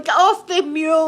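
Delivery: high, loud command; mock police shout. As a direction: shout an order like an officer. Acted police order to suspect.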